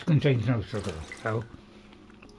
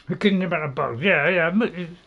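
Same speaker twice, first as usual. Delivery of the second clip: mouth full; 2 semitones higher, 4 dB louder than usual. Real, not acted. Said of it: "I'm just chewing".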